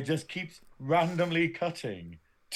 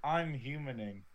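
slow, slightly lower deadpan imitation; Spock impression; 3 semitones lower, 5 dB quieter than usual. Co-host mocks Spock acting human, slow deadpan imitation. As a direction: lightly imitate an alien trying to pass as human. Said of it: "Spock's just like".

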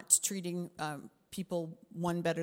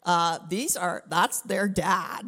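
exasperated; 9 dB louder, slower than usual. Retold or imitated. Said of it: "and kinda go".

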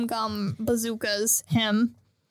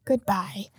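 understated fond farewell; 4 semitones lower, slower than usual. Retold or imitated. Acting out Kureha's fond farewell.

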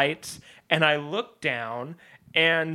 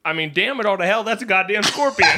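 startled father; 4 semitones higher, faster than usual. Retold or imitated. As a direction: build to an exasperated curse as the imitated dad. Father sees scorpion, acted after pause.

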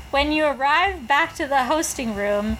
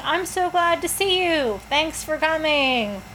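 gracious society hostess; 4 semitones higher than usual. Shown as a demonstration. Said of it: "that's my hostess voice".

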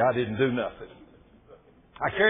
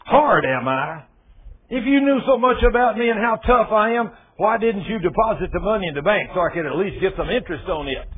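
roaring tyrant king; 3 semitones higher, 6 dB louder than usual. Acted. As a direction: thunder at the lazy servant. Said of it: "the king roared".

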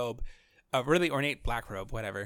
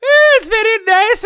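much higher, loud posh British lady voice; 13 dB louder than usual. Retold or imitated. Posh British Lalafell greeting the party, high and prim. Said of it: "posh British".

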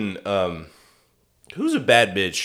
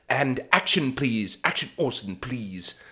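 soft, feeble call for action; meek little director; 7 dB quieter than usual. Retold or imitated. Off-screen director prompting Orson, meek and quiet. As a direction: trail off into a timid please. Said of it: "same shitty little director guy off screen".

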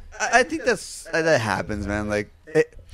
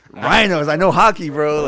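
loud, higher-pitched mock boast; overeager butting in; 4 semitones higher, 8 dB louder than usual. Fan jumping off Pete's back to impress band, overeager. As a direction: burst in loudly, half laughing.

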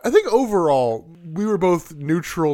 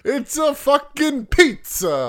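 high, drawn-out hammed-up Italian; mock Italian accent; 10 semitones higher, much slower than usual. Riffing on the Italian commentator, exaggerated Italian accent. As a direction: stretch it slowly in a cartoon Italian accent.

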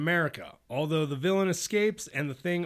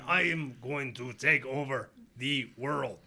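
flat mechanical robot voice; 3 semitones lower than usual. Retold or imitated. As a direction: speak like a stiff robot, badly. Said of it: "I'm trying to do a robotic voice".

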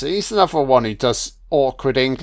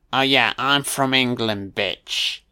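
mock English accent. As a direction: lay on a smug English accent, mocking. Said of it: "My accent, did it hit the spot?".

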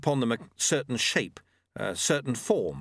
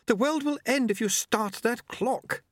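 much higher, urgent lady's warning; Lady Lejeune's voice; 12 semitones higher than usual. A narrator's reading. Lady Lejeune warning the auditors, urgent and higher. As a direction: warn them that the world will end.

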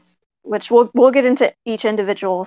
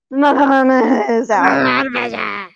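mock crying; 2 semitones higher, much slower than usual. Mock sob.

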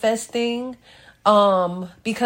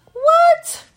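astonished what; 7 dB louder than usual. Retold or imitated. Stunned that site is done.

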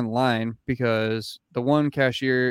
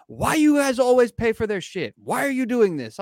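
imitating the clerk; 10 semitones higher, 4 dB louder than usual. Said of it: "clerk that I fucking stood up for was like".

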